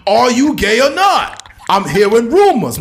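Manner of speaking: loud, high, slow gossiping pundit; Stephen A. Smith. Retold or imitated. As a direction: arch knowing insinuation, drawn out loud. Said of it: "Stephen A. Smith be like".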